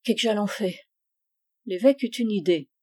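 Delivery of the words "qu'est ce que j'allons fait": husband echoing quietly. A narrator's reading. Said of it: "il dit à son tour".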